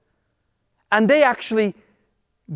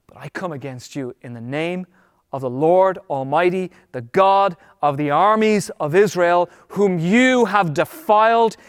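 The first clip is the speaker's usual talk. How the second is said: tremendous faith. Acted. David answering the Philistine giant, building declaration of faith. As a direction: declare it with growing, unstoppable conviction. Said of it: "he's speaking with tremendous faith".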